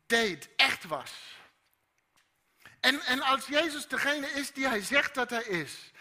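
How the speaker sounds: loud, high, fervent preaching; preaching at full force. Acted. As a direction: drive the message home to the congregation.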